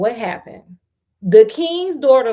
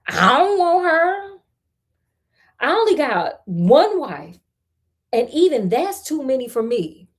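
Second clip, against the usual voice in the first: peasant refusing; 3 semitones higher than usual. Acted. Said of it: "said the peasant".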